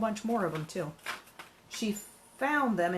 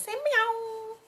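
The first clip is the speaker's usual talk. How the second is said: high, louder sing-song call to a pet; 4 dB louder than usual. Real, not acted. Owner calling her cat Diva, high and louder baby talk.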